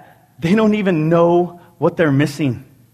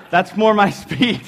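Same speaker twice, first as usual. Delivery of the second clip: laughing; 5 semitones higher than usual. Real, not acted. Laughing at own joke.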